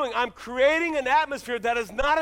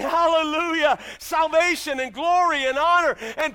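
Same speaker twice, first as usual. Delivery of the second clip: louder, ringing hallelujah; loud praise proclamation; 5 dB louder than usual. Acted. Preacher reads heaven's multitude, loud praise.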